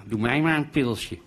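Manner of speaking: sing-song mock imitation; mocking mimicry. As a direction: parrot the order with a touch of mockery. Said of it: "bauwde Harm na".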